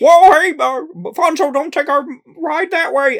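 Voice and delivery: squeaky, high and loud, poorly done. Worrying about a Muppets storyline, acting out a line: bad Kermit the Frog impression. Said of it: "that was barely even Kermit".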